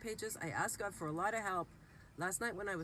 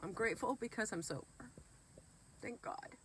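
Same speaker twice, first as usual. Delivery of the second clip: fast, choked-up words, then a breathy Thank God; real tears of gratitude breaking through; crying while grateful, voice slipping to a whisper; tearful gratitude; 4 semitones higher than usual. Real, not acted. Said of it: "I'm crying because I'm grateful".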